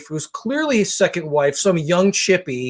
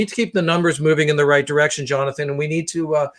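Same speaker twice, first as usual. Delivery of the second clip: lightly voiced businessman on a call, brisk; a hint of a self-important exec talking shop; loud phone businessman; faster than usual. Comedian mimicking a loud guy on a call, mild businessman voice. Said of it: "So it's this kind of talk".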